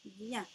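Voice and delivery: "vient" said on its own; a single separate "vient"; isolated syllable. Shown as a demonstration. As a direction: set "vient" apart as one syllable. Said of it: "et la syllabe".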